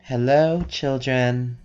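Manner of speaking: a lightly voiced eerie caller; woman calling through door. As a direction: call out to children, stretching the words.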